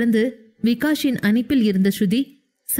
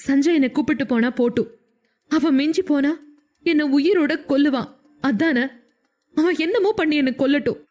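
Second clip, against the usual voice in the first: tearful despair; 4 semitones higher than usual. Acted. Weeping heroine pleads despairingly.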